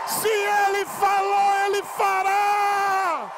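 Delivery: rousing revival preacher at full cry; full-force preaching. Real, not acted. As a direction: preach it to the rafters.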